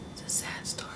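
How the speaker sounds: hushed mock-sad whisper; a quick whispered aside. Real, not acted. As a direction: drop to a whisper for the joke. Whispered aside about sad story.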